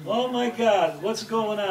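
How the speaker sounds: a frail grandmother calling from the bedroom, alarmed; alarmed grandma. Retold or imitated. Grandma in the bedroom hears the fight, alarmed. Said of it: "Busha says".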